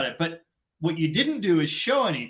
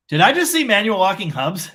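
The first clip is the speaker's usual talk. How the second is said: sudden double take, louder; catching himself mid-glance, louder; he does a double take at the ad, louder; 4 semitones higher, 6 dB louder than usual. Retold or imitated. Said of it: "and then I went".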